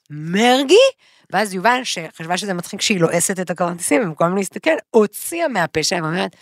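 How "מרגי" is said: imitated dawning surprise. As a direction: repeat the name with a rising question. Imitates friend realising, repeated louder.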